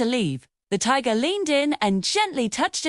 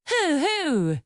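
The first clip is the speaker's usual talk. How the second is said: soft owl hoot; 5 semitones higher than usual. A narrator's reading. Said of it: "it hooted softly".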